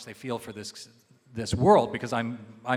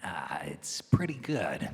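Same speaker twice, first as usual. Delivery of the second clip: whispering; 5 semitones lower, slower than usual. Real, not acted. Modest reply to praise.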